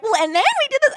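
high-pitched mock chatty voice; imitating Honey. Honey recounting fake memories to Becca, high mock chatter. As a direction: prattle on in a put-on high voice. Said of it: "Honey being like".

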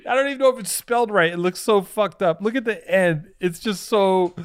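high, giggling through the words; laughing. Real, not acted. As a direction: laugh while you talk. Laughing at shirt drawing.

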